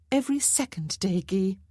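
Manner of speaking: a vain society lady teasing about her wealth; playful marchesa. Acted.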